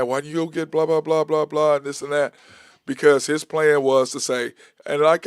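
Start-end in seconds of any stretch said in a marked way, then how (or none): 0.0-2.3 mock-indignant, raised-pitch complaint; retold griping. Fans griping about the trade deadline move, mock annoyed. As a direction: imitate mad fans, louder and rattling off blahs. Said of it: "we were all mad".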